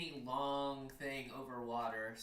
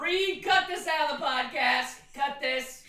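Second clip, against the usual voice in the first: laughing; 11 semitones higher, 11 dB louder, slower than usual. Real, not acted. Begging through laughter.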